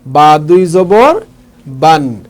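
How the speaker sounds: slowly, every word drawn out; slow teaching demo. Shown as a demonstration. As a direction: lay it out slowly for learners. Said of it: "তাহলে হবে বান।". (ধীরে ধীরে উচ্চারণ)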